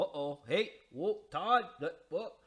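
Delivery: alarmed whoa. Acted. Acting out scared reaction to abuse.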